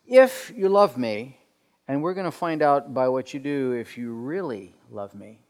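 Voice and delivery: demanding, as if assessing the listener; stern, testing. Shown as a demonstration. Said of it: "kind of a stern tone".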